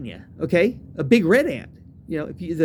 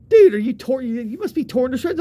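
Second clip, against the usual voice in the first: higher-pitched imitation of astonished friends; retold amazement; 5 semitones higher, 4 dB louder than usual. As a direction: act a friend's astonished question.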